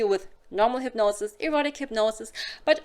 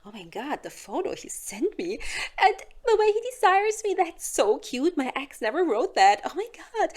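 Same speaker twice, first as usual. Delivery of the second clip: gushing; 6 semitones higher than usual. Acted. Woman gushing over a text.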